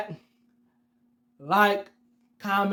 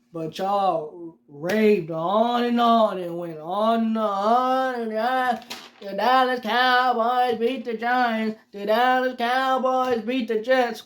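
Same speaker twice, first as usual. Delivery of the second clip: mocking the fans; 3 semitones higher, slower than usual. Mocking fans' bragging.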